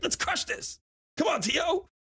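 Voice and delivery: high whispered pep; hyped whisper. Retold or imitated. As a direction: fire yourself up in a breathy whisper. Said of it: "I'm like".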